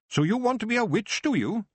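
put-on old witch testing the boy who wants to be a witch; probing old witch. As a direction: loom over the boy and test him. Proust looming over Geoffrey.

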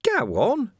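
cheerily bait him; cheerful taunt. Acted. Carcer baiting Vimes through the bars, cheerfully mocking. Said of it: "said Carcer cheerfully".

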